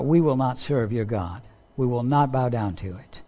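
soft, firm refusal; calm and steady, never raising the voice; the young men refusing the king; quiet defiance. Retold or imitated. Three men's quiet defiance.

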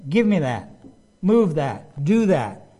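loud, curt commands from a self-made boss; bossy orders. Retold or imitated. College coworker bossing the new guy about, curt and loud. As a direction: snap orders like you own the place. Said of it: "He would say".

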